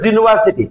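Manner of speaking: "ইউনিভার্সিটি" said as "juniversity"; "ইউনিভার্সিটি" opening on "zoo"; England-style J sound. Shown as a demonstration. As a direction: start "ইউনিভার্সিটি" with a J/Z sound, not "you". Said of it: "ইংল্যান্ডে উচ্চারণটা করে".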